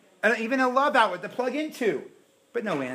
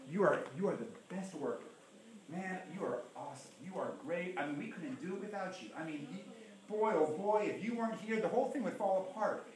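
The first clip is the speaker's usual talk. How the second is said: mock boss praise; 9 dB quieter than usual.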